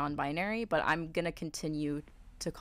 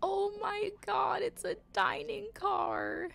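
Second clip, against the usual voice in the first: delighted squeal; 13 semitones higher, slower than usual. Real, not acted. Discovers the train's dining car.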